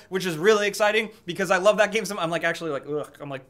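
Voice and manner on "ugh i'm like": flustered, spitting a bit; tripping over words, saliva flying; spitting while talking. Real, not acted. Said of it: "saliva coming out of my mouth".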